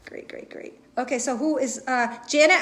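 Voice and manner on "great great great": fading whisper. Real, not acted. Trailing repeated affirmation.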